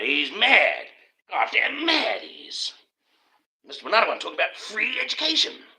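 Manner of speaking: mock billionaire raging at free education; scoffing elite. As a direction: ham up an appalled aristocrat.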